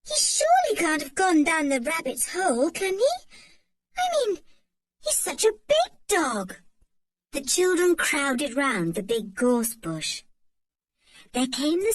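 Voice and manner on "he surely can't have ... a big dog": worried. A narrator's reading. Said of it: "in a scared voice".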